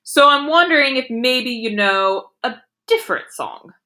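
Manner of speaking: patient grown-up teacher; gentle teacher voice. Acted. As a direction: coax him kindly toward another song.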